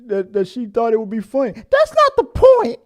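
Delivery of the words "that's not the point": exasperated. Acted.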